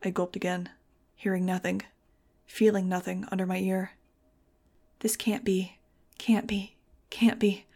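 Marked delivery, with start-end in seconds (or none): 5.0-7.7 desperate disbelief. Acted. Desperate thought at dead boyfriend.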